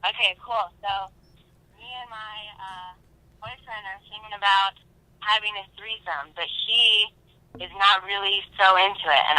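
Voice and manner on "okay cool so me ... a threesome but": faint caller on speakerphone; hesitant voice through a phone; phone speaker. Real, not acted. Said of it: "I'm holding my phone up to the microphone".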